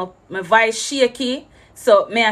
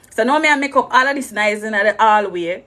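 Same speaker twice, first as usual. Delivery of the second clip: ordinary delivery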